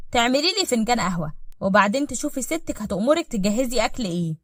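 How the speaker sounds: cool, matter-of-fact order; coldly. Acted. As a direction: give orders with detached coldness. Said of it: "وقال ببرود".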